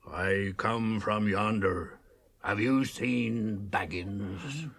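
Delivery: slow, lightly menacing stranger; drawn-out cold questions; sinister rider. Retold or imitated. Maggot retelling the black rider's question, slowly and menacingly. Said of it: "he said".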